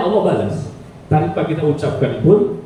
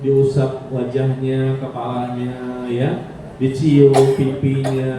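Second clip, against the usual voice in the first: gentle and tender; 3 semitones lower, slower than usual. Shown as a demonstration. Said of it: "dengan lemah lembut".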